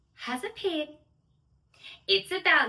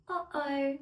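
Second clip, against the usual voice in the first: gasp, then a soft uh-oh; worried little uh-oh; surprised uh-oh; 4 dB quieter than usual. Acted. Gasp at theme park.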